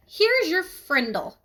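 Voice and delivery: slow, with weight on "frindle"; new word frindle. A narrator's reading. Nick hands Janet her pen, slowly naming it frindle. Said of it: "he said".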